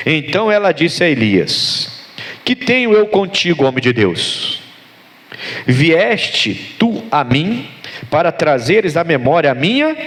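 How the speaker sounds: slow, measured Bible reading; solemn pulpit reading with long pauses; scripture reading. Real, not acted. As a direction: read the verse out deliberately, stretching the words. Reads scripture aloud to congregation.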